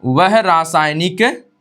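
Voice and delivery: slow, with long pauses between phrases; slow dictation. Shown as a demonstration. Teacher dictating a definition to students, slow and spaced. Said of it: "परिभाषा भी आप जानेंगे तो लिखेंगे".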